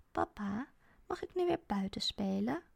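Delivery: put-on soft, whispered question of a shy child; a small girl asking her dad quietly; shy little girl. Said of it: "vraagt Melissa". (verlegen meisje, zacht gefluisterd)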